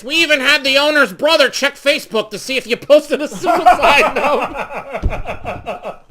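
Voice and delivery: high and loud, laughing through the words; laughing quote. Retold or imitated. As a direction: crack up while quoting the coworker. Coworker, laughing while quoting.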